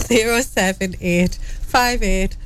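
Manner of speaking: careful, spaced-out phone number; deliberately slow. Real, not acted. Co-host gives listeners the WhatsApp number, deliberately slow. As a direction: read the digits out one group at a time. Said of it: "I'll say it slowly".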